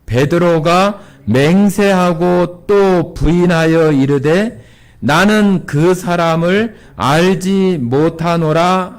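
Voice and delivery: slow, measured unison Bible reading; reading scripture together. Shown as a demonstration. Congregation reading verse seventy-two aloud, slow. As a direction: read the verse slowly together. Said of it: "칠십이 절 같이 읽겠습니다".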